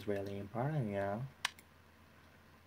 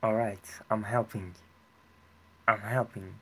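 eager call; 6 dB louder than usual. Real, not acted. Eagerly announcing help in game.

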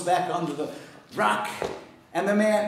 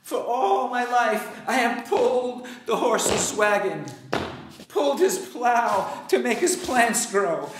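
a lightly voiced old horse. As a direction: give the worn-out horse a lightly raised voice. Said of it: "Said the horse".

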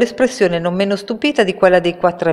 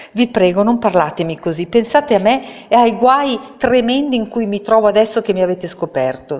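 higher, pleading voice of a frightened little man; desperate plea; 6 semitones higher than usual. A narrator's reading. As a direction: beg them to pity him. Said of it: "supplicò Oz". (supplica disperata dell'ometto)

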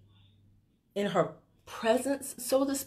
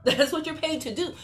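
laughing; 6 semitones higher, 4 dB louder than usual. Real, not acted. Laughing repeat of the line.

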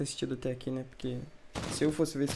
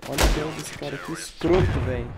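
louder, outraged repeat; indignant; 6 dB louder than usual. Real, not acted. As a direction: call it out in outrage.

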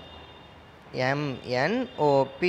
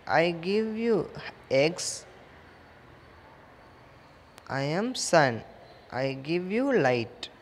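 model sentences. Shown as a demonstration. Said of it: "you have to speak like this".

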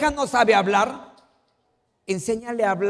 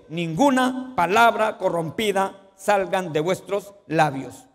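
slow solemn Bible quote; scripture reading; slower than usual. Real, not acted. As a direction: read the verse slowly and gravely. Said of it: "la Biblia nos dice".

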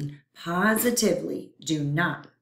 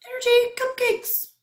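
high, greedy germ voice; hungry germ voice; 4 dB louder than usual. Acted. Germ refrain.

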